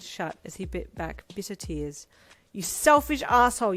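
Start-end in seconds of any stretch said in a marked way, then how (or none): 2.5-3.7 furious scream, much louder and higher; a hurt daughter screaming at her dad; screaming loudly. Acted. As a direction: scream it at your father. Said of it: "you screamed loudly at your dad".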